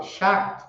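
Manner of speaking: "short" with the final T nearly dropped; T quase mudo em "short"; almost silent T. Shown as a demonstration. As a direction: say "short" swallowing the T. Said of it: "É um T quase mudo".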